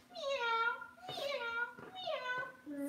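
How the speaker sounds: high little meows; cat meow. Shown as a demonstration. Getting the baby to copy the cat, high meows. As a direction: mew like a kitten. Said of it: "this one is the cat".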